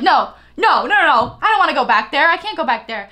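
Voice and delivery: rapid-fire protesting, hammed-up; mock panicked refusal. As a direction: act out someone balking in a mild panic. Acts out person's panicked refusal.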